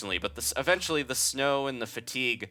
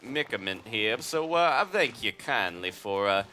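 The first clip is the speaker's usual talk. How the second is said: southern chicken voice. Acted. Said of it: "kindly southern chicken".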